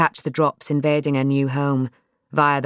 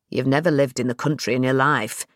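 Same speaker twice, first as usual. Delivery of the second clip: dad's voice; 3 semitones lower than usual. Acted.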